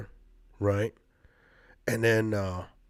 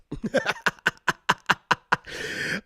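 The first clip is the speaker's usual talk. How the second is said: high breathless wheeze of laughter; wheezing laugh; 10 semitones higher than usual. Real, not acted. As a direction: silent cracking-up laugh. Recalling the cop story, cracking up.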